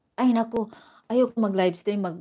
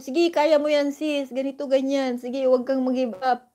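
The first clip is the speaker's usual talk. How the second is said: cheering viewers; 4 semitones higher than usual. Retold or imitated. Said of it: "chini-cheer out nila ako".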